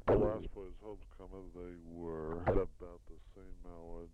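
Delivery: reading text aloud with spoken punctuation; steady measured dictation to a secretary. Shown as a demonstration. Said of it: "That's the end of dictation".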